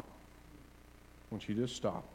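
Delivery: slow, very soft, almost voiceless; hushed urging. Real, not acted. Preacher urging congregation to stop and breathe, hushed urging. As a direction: drop to a slow hush to make them pause.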